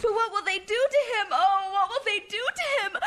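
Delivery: frightened. Acted. Girl frightened for Dick.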